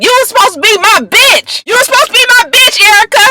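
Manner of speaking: high-pitched, indignant retold yell; mock screaming. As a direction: imitate someone yelling an outraged demand, pitch way up. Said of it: "So they was screaming".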